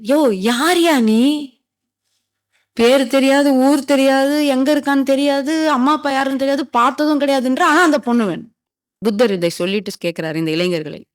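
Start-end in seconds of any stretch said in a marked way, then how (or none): 0.0-8.5 raised-pitch, incredulous recap; exasperated listing on a high, level pitch; acted exasperation. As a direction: tick off each absurdity in mock exasperation. Exasperated questioner sums up absurd answers.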